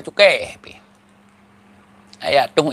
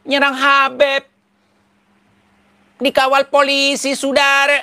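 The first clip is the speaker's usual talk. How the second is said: mock preacher; 9 semitones higher, 3 dB louder than usual. Mocking a fiery preacher to the crowd. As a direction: ham up a fiery street preacher.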